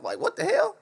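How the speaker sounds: very high, loud, outraged disbelief; shocked outburst. Real, not acted. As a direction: squeal it in stunned outrage. Reacting to the ultimatum.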